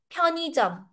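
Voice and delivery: 편의점 said quickly as pyeo-ni-jeom; linked pronunciation. Shown as a demonstration. Teacher confirms how we pronounce it, linked pronunciation. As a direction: say 편의점 in one run, n joined to i. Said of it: "This is how we pronounce".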